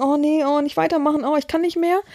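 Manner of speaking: whiny, jammering, whimpering moan. Retelling how someone cried during a session: imitating whimpering and moaning. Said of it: "wimmern, jammern".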